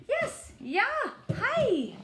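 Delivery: high playful hi; high cheery voices. Acted. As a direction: chirp hello like a tiny character. Neighbours answering about the dog.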